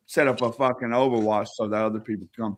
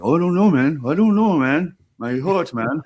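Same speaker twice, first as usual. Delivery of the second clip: higher, louder mock whine; faking a heart attack; 4 semitones higher, 4 dB louder than usual. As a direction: ham up a fake heart attack. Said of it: "tried to fake a heart attack".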